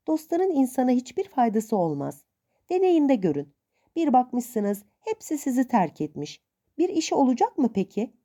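hint of a stern old aunt. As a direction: lightly play the suspicious old aunt.

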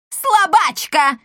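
loud, high, slow taunt; shouted taunt. A narrator's reading. Wife shouts after the fleeing matchmaker, loud taunt. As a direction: yell it after her. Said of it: "крикнула ей вдогонку госпожа Монпансье".

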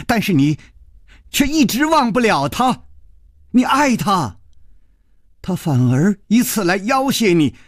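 high, urgent reproach; impassioned insistence. Acted. Lover argues why revenge is owed, impassioned and high. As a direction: press the case with feeling.

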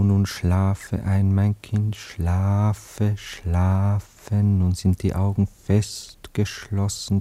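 slow, soothing hypnotist voice; hypnotic lulling. Acted. Anatol hypnotising Cora, slow and soothing. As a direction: lull her to sleep, word by word.

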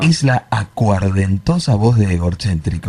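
raspy voice under the flanger; rough boozy rasp through the effect. Real, not acted. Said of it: "la acuardentosa voz". (voz aguardentosa)

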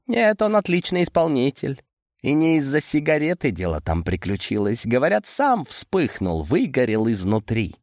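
insistent Boris. Acted. Boris defends the executor to Amadei, high and insistent. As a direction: pitch it up and defend the hired man.

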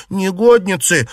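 high, loud furious cry; angry shout. A narrator's reading. Yuanyang shouting at the two maids in anger. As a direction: hurl the insult at them. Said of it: "крикнула Юань-Ян".

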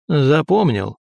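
hollow, booming barrel echo. Acted. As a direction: voice echoing inside a barrel. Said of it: "его голос прозвучал, как из бочки".

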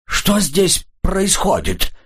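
slow, strained, frightened words; хрипло; hoarsely forced out. A narrator's reading. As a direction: squeeze out the question in shock. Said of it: "хрипло выдавил он".

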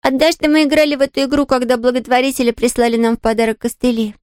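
put-on a young girl brushing off the maid's worry; little girl Pollyanna. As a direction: play the eager little girl, light and quick to reassure. Pollyanna voiced.

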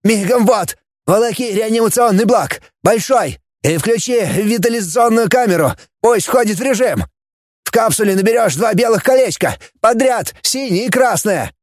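high, rushed barking of orders; frantic orders. A narrator's reading. Anastas rattles off orders to Tapi, high and urgent. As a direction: fire off commands in a panic.

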